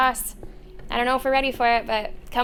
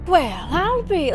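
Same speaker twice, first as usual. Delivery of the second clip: slow, higher transatlantic drawl; old movie transatlantic accent; 6 semitones higher, 4 dB louder, slower than usual. Shown as a demonstration. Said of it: "imitate it a little bit".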